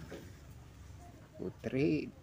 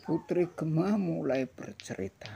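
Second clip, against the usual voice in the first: put-on reading to children; 7 semitones higher, 5 dB louder than usual. A narrator's reading. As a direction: clear storybook read-aloud. Reading picture book aloud.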